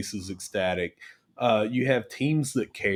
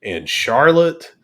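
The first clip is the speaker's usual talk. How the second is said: incredulous; 4 semitones higher, 5 dB louder, slower than usual. Retold or imitated. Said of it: "and I'm like".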